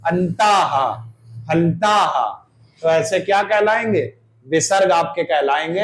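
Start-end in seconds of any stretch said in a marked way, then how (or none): 0.1-2.2 अंताः and फलताः ending in a breathy हा; teacher repeats the visarga words; visarga demo. Shown as a demonstration. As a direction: breathe out हा at each word's end. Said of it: "हा निकल रहा".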